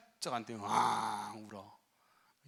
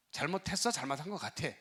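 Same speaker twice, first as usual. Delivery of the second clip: pressing question; 3 semitones higher, 4 dB louder than usual. Retold or imitated. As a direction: press him for a real admission. 목사가 추궁. (목사가 신랑에게 따지듯 크게 되묻는)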